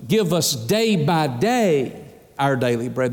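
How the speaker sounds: "day by day" stretched out slowly and leaned on; slow down and weight each "day" in "day by day"; stress on DAY BY DAY. Shown as a demonstration. Preacher quoting Luke's wording, emphasis on "day by day". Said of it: "That's the emphasis".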